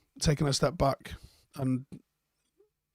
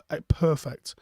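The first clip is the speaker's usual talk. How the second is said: whisper; slower than usual. Real, not acted. Reading a touching comment aloud.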